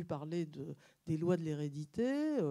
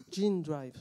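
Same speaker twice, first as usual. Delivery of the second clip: Gene drive in a self-mocking English accent, a bit louder; clumsy English accent on Gene drive; 6 dB louder than usual. Shown as a demonstration. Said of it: "excuse-moi pour mon accent anglais désastreux".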